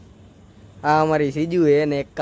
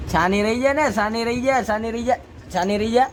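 higher, gentle hushing, over and over; soothing the dog; 3 semitones higher than usual. Real, not acted. Owner hushing her crying dog at midnight, soothing and high. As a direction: coax her to stop crying.

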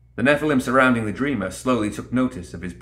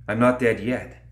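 growled. Acted. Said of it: "Lilith growled through clenched teeth".

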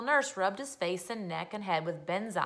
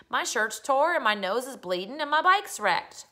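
crying; 5 semitones higher, 6 dB louder than usual. A narrator's reading. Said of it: "who was crying".

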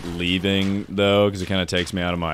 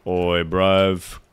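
jokey British accent attempt; casual mock-British voice; slower than usual. Shown as a demonstration. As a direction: put on a stereotype British accent. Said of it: "Can you do a British accent?".

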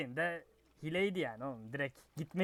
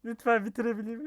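pleading; 5 semitones higher than usual. Real, not acted. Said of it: "bunu sığırlarla hardcore için yapıyorum".

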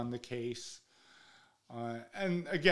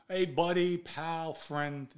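higher, punched first words, then easing; raised-pitch buddy-buddy call; mock-chummy greeting; 5 semitones higher, 4 dB louder, slower than usual. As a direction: hail a pal in a retold greeting. Voices a hearty greeting to guest.

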